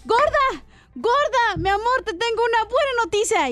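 excited husband bursting through the door. Acted. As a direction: burst in with good news. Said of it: "Bien emocionado".

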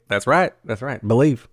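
badly faked folksy coach accent; a horrible try at a TV coach's accent; Ted Lasso. Teasing a co-host over sweet tea, badly faked coach accent. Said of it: "That was a horrible Ted Lasso accent".

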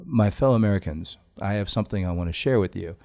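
calm, measured statesman voice; steady formal address to the nation; Obama presidential address. Retold or imitated. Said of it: "Obama will say something like".

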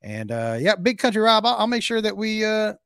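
lightly voiced showman persona, loud starts that drop away; Clyde Blackstone. Host bragging about his old hit, lightly played persona. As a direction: boast as a hammed-up singer-host.

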